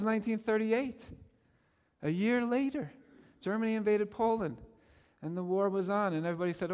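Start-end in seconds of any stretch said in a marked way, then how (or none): none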